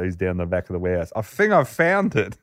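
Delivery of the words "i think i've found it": retelling a worker's excited shout; mock yell. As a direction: shout it across a warehouse. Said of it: "one of the young workers yells out".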